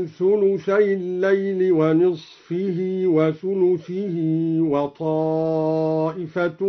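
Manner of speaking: ونصفه وثلثه read wa-nisfihi wa-thuluthihi with kasra; slow recitation with genitive endings. Shown as a demonstration. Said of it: "بالخفض عطفا على".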